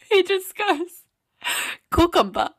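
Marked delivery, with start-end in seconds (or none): 1.9-2.5 mimicked African accent on one word; imitating African man. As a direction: imitate the African man's cucumber line. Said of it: "that video of that African guy".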